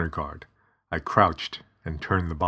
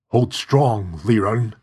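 strained, louder, teeth clenched; through gritted teeth; 2 semitones higher, 4 dB louder, slower than usual. Acted. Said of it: "father said through gritted teeth".

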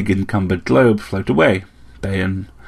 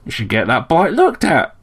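higher-pitched little bird voice; chirping sparrow; 6 semitones higher than usual. A narrator's reading. Sparrow fusses over Slayle's injuries, chirping. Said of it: "chirped the sparrow".

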